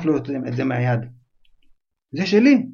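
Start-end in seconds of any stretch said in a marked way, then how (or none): 2.1-2.7 protesting cry. Acted. Boy grabs back his letter.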